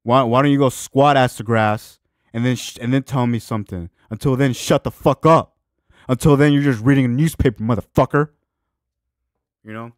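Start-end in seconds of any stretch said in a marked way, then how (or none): 0.0-8.3 retold rant. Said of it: "I'm like".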